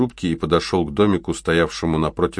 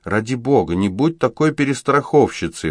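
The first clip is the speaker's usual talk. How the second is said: выпалила; 6 semitones higher, 3 dB louder than usual. A narrator's reading. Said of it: "выпалила Энджел".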